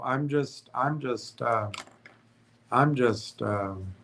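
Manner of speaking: slurred, stumbling words; struggling to get the words out; thick tongue. Real, not acted. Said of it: "my tongue is thick".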